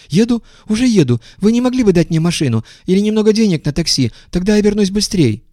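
high, quick and eager; high hurried eagerness. A narrator's reading. Visitor asking for a taxi, high and hurried. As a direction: rush it, eager to please.

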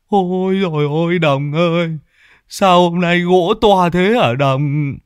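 high, slow dismayed wail; Lâm Sẹo wailing at the huge logs. Acted. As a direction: moan out the alarm, dragging it. Lâm stammers in alarm.

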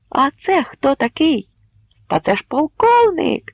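high, loud yelling; shouting crowd. Acted. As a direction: shout out from the mob. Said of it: "закричали в першому натовпі".

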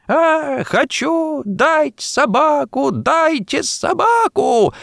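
put-on a spoilt boy squealing high and drawn out; shrill squeal. A narrator's reading. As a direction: whine it out like a furious child, slow. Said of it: "взвизгивал мальчик". (капризный пронзительный визг)

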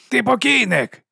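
shouting threat. A narrator's reading. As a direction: yell it at the enemy below. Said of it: "кричить Райф".

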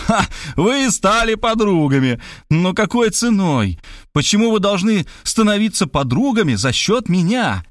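a touch of a furious outburst; indignant, rising protest; outraged yell. Acted. Writer shrieking at the meddling woman in fury. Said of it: "завопил".

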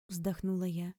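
ordinary delivery, nothing marked

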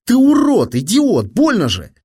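high, loud squeal of pain. A narrator's reading. Fat boy clutching his hurt shoulder, squealing. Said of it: "запищал толстяк".

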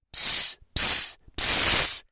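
unvoiced hissing psst to get attention; whispered psst. Kids hissing to catch the skeleton's attention, whispering. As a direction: call him over in a whisper.

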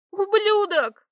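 high, loud shriek; shrieking insult. A narrator's reading. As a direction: scream the insult at him. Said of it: "завизжала девушка".

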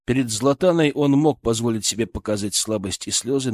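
ordinary delivery, nothing marked

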